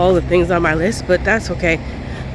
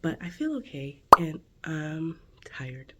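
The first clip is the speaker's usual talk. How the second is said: whispering; 4 semitones lower, 17 dB quieter than usual. Real, not acted. Whispers all morning clip.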